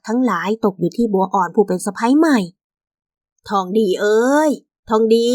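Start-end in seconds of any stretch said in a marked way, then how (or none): 2.9-5.3 drawn-out call; calling her son. Acted. Mother calls her son about goods to sell, calling out. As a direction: call slowly for a son by name.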